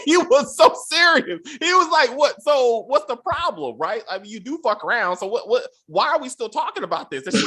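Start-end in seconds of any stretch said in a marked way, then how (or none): 2.2-7.2 mock casual husband. Mocking the serious husband.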